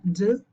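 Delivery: "d" as a bare voiced sound with a short buzz. Shown as a demonstration. Teacher sums up the rule, voiced "d". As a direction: say "d" alone with the voice on. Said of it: "termina con un sonido voiced".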